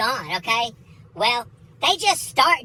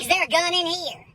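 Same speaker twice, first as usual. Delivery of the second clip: high, alarmed question; freaked-out bailiff; 6 semitones higher than usual. Retold or imitated. Bailiff questioning the old lady, mock alarm. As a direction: imitate an alarmed bailiff, pitch raised. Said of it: "The bailiff starts freaking out".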